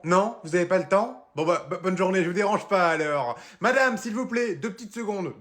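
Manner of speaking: high, chirpy sales pitch voice; the over-eager flyer guy stopping passers-by; pushy street seller. Acted. Seller pitching donut-crêpe flyers to passers-by, high chirpy pitch.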